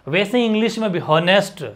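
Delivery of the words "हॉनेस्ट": "हॉनेस्ट" with the H sounded; mispronounced "हॉनेस्ट", H not silent; wrong pronunciation. Shown as a demonstration. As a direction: put an audible H on the front of "हॉनेस्ट". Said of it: "वो गलतियाँ हैं".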